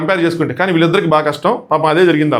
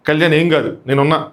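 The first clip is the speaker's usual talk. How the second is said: comforting. Retold or imitated. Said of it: "అని రాబోతుంటే".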